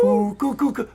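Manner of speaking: high, ringing coo coo call; the yard call that brings the kids running; kids' come-out call. Shown as a demonstration. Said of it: "I yell that".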